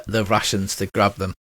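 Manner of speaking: ordinary delivery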